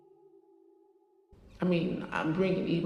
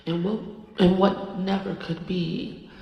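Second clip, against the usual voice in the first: channeled goddess voice. Acted. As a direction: speak as a spirit passing through you. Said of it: "She wants to come through".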